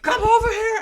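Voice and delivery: high-pitched mock yelling teacher. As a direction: squeak it out like a spitting teacher. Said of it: "she'd be like".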